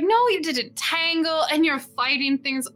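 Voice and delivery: lightly acted proud mother; proud mom. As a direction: gush a little over the kids' exploits. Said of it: "super proud and giggly".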